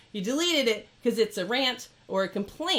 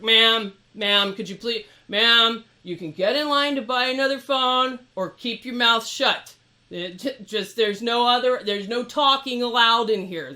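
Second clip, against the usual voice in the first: mock stern staff voice, louder on the ma'ams; dismissive ma'am; 5 dB louder than usual. Imitating Apple staff silencing a customer, stern and louder. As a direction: shut her down like a librarian. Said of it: "getting ma'ammed".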